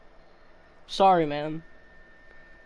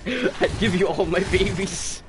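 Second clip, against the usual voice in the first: mock sincere; 3 semitones higher, slower than usual. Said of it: "I can't do that with a straight face".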